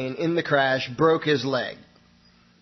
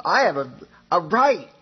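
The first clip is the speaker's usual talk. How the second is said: insistent, rising higher on right; ranting; 5 semitones higher than usual. Retold or imitated. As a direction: hammer home her right, voice climbing. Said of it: "she's ranting on and on".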